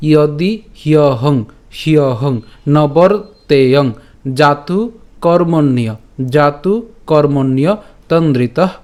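slow teaching recitation, phrase by phrase; shloka recitation. Shown as a demonstration. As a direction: recite slowly with pauses for learners to follow. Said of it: "আমি আবার বলছি প্রথম লাইনটি". (থেমে থেমে ধীরে শ্লোকের লাইন পাঠ)

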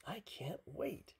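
high, drawn-out eagerness; excited storybook pig; eager cry. A narrator's reading. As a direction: stretch it out high with anticipation. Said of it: "cried Pig".

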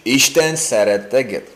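"Isten szeret téged" at normal pace; Hungarian phrase. Shown as a demonstration. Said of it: "It's in Hungarian language".

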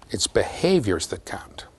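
slow, hushed repeat; emphatic whisper. Real, not acted. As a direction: whisper the key point slowly. Key point repeated for emphasis.

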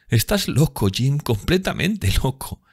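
high, incredulous reproach, drawn out at the end; scolding sister. A narrator's reading. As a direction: chide your brother in a high girlish voice. Sibyl scolds her brother. (reproche agudo de hermana)

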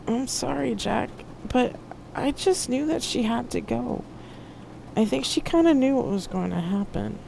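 high, soft, regretful voice; sorrowful apology. A narrator's reading. Poe consoling Jack over Marcia's loss, sorrowful apology. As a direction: apologise softly and gently.

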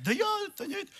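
lightly voiced sister, high and unsure; hesitant sister. Pastor mimics the church sister refusing, high and flustered.

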